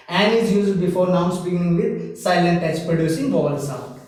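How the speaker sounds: slow, word-by-word dictation of the rule. Shown as a demonstration. Teacher dictating the grammar rule to students, very slow. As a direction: spell it out slowly so they can write it down.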